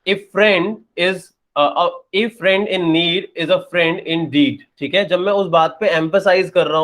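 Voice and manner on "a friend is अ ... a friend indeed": "A" said as a full "ay" with emphasis, slowly; strong emphatic a. Shown as a demonstration. Teacher demonstrating the strong "ay" for emphasis. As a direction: stress "A friend" with the full "ay" vowel. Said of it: "जैसे मैंने बोला".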